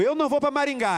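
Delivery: loud, high-pitched refusal; imitated angry outburst. Wife refusing to move before slamming the door, shouted. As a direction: yell it like an upset wife storming out.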